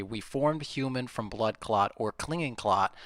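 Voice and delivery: "blood clot or clinging clot" spaced out slowly; deliberate emphasis. Real, not acted. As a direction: read "We formed human" with measured weight on each key word. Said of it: "put the emphasis on the right syllables".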